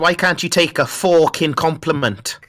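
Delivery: light put-on Irish accent. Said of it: "It's not, it's Irish accent".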